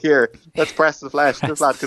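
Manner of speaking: slow, hammed-up politician schmoozing; a slow, mock canvassing politician; glad-handing politician. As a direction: play the vote-hunting local TD, slowly. Imitating politician canvassing voters.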